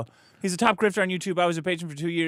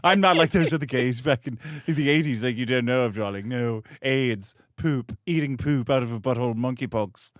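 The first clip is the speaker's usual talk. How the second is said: Milo impression; 3 semitones lower than usual. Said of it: "another impression of Milo Yiannopoulos".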